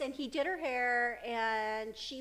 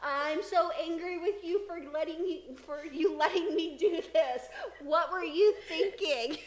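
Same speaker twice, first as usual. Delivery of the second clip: mock angry daughter; 3 semitones higher, 4 dB louder than usual. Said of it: "daughter retold, angry about bangs".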